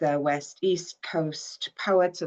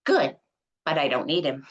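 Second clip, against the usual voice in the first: brushing off the gift; mother, dismissive; faster than usual. Acted. Mother telling Brett she doesn't need the desk, lightly voiced. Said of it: "Brett and Mom in Assisted Living".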